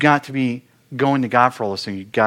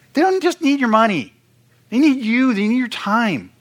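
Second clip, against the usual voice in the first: emphatic preaching; 11 semitones higher than usual. Real, not acted. Urging ministers their families need them, emphatic and raised. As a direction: drive it home to the congregation. Preacher presses the point hard.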